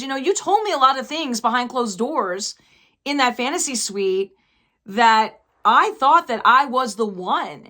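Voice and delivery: imitating a wronged woman confronting her ex; retold hurt accusation. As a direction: act out her reproach, leaning on the key words.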